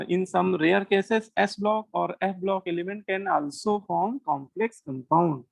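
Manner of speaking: very slow, each word drawn apart; very slow dictation. Shown as a demonstration. Teacher dictating the exception to students, very slow dictation. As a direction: dictate it word by word so they can write. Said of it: "तो ये लिख लेना".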